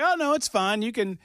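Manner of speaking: high cartoon fruit voices; squeaky orange voices. Host retelling an ad, oranges in high cartoon voices. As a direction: pitch it way up like talking oranges. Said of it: "they're like".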